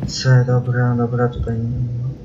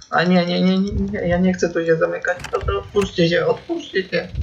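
higher, fast frightened begging; panicked pleading; 5 semitones higher than usual. Real, not acted. Panics as doors lock.

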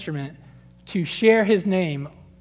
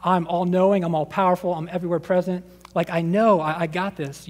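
exasperated God. Retold or imitated. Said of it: "he's just shaking his head like".

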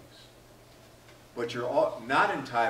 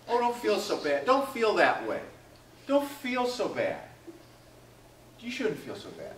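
mock consoling; 7 semitones higher than usual. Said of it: "Has anybody ever said to you".

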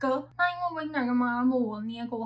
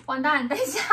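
surprised; 3 semitones higher, 7 dB louder than usual. Real, not acted. Panics at the 44-second mark.

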